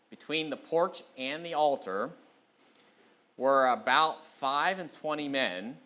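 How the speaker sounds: measured, emphatic Bible reading; scripture reading. Real, not acted. Preacher reads Ezekiel to the congregation, measured scripture reading. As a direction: read the verse out deliberately, phrase by phrase.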